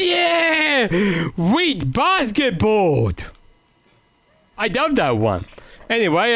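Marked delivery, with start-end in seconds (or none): 0.0-3.1 mock sports fan cheer. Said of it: "and then they went".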